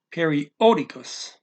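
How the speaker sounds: periódicas with a strong accented O; stress on the O. Shown as a demonstration. Portuguese teacher showing the accent mark, stress on periódicas' O. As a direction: hit the O in periódicas. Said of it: "gotta put that O loud".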